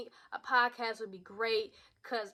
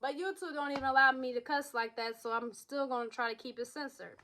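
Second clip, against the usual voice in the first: talking while chewing gum. Real, not acted. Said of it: "to have gum in your mouth".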